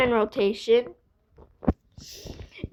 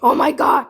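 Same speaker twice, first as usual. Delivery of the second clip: funny sound; 6 dB louder than usual. Shown as a demonstration. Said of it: "I can do more funny sounds".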